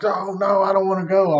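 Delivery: high, whiny mock pleading; imitated cowering. Friend cowers in the car at the hospital, mock frightened plea. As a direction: imitate him cowering, pitched well up. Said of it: "he cowered real, real tight".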